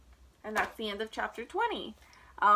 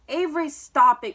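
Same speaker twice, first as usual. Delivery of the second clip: much louder scolding call; cried out; 3 semitones higher, 12 dB louder than usual. A narrator's reading. Mother scolds Avery clowning in the ring, loud. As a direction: call your child to order. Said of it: "cried his mother".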